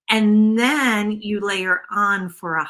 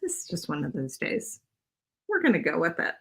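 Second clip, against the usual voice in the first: rueful laugh-cry; 4 dB quieter than usual. Real, not acted. After laughing at her own mess-up.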